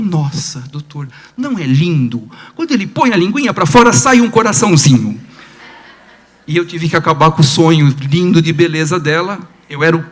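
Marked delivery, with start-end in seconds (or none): 0.0-5.2 charmed mother. Retold or imitated. Mother proudly describes baby's tongue.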